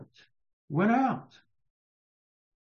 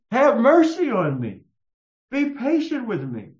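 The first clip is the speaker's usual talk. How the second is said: higher pleading plea for mercy; begging servant; 5 semitones higher, 4 dB louder than usual. Acted. Servant on his knees begging master, pleading. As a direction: beg the master for patience.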